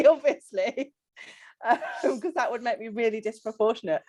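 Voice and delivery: quick, giggly aside; laughing at her own joke, fast. Real, not acted. Member laughing to the coach about being disproportionate. Joking about uneven weight loss.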